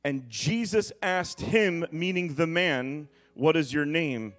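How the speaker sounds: dramatic pulpit reading, stretching weighty words; emphatic scripture reading. Acted. Preacher reading the storm and tombs story to church, emphatic preaching.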